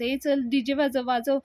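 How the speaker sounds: excited order. Retold or imitated. Anna telling the DJ to play, happy and loud. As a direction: cheer on the DJ.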